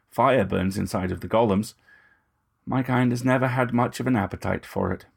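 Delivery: lightly voiced vampire gentleman, smooth and ingratiating; a hint of menace under courtesy; vampire purring false reassurance; Moust, oily vampire. Moust about fire.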